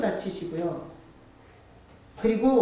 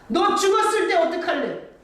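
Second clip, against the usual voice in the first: stern rebuke; 9 semitones higher, 6 dB louder than usual. Acted. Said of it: "이렇게 가르쳐줘".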